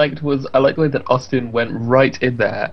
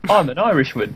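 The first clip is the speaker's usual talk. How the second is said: put-on Oliver Twist Irish accent. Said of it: "Irish accent was Oliver Twist".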